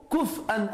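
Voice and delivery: كُفْوًا recited with no vowel after the f; Quranic reading variant. Shown as a demonstration. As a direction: say كُفْوًا as "kuf-an", stopping on the f before the ending. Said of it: "Trois qira'a".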